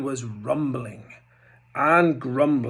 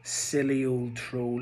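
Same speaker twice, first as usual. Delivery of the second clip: tutting; 2 semitones lower, 6 dB quieter than usual. Acted. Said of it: "he tutted".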